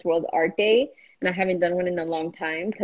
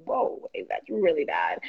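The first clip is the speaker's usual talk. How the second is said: mock dismay; 4 semitones lower, 5 dB quieter, slower than usual. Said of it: "you're like".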